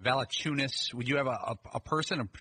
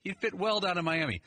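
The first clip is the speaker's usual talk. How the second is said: higher-pitched mock pundit take; draft analyst; 7 semitones higher than usual. Analyst passing off a peeked-at pick, mimicked pundit voice. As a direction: play the pundit with a sudden hunch.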